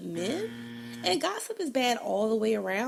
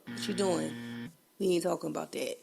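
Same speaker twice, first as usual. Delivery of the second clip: lower, firm man's "whoa, whoa"; boyfriend shutting down gossip; 6 semitones lower, 3 dB louder than usual. Retold or imitated. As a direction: imitate a man cutting the gossip short. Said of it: "they have shut me down, like".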